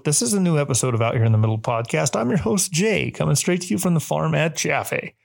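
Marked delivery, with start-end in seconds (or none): 2.2-5.1 high, showy host voice; talk show host. Pretend. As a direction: announce it like a TV host. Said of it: "That sounded like a talk show host".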